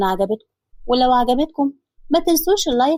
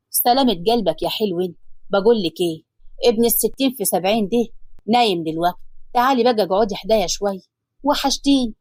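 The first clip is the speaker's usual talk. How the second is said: lower, tender husband's voice; loving man's voice, lower; Hassan's voice; 3 semitones lower than usual. Acted. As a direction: soothe her as her husband, lower.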